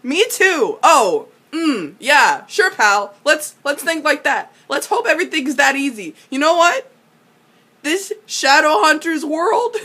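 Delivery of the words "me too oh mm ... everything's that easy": sarcastic agreement. Retold or imitated. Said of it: "I was like".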